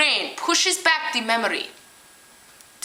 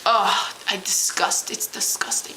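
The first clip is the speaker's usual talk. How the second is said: mock revulsion at the drool; dragged-out ugh of disgust; grossed out; 2 semitones lower than usual. Professor grossed out again.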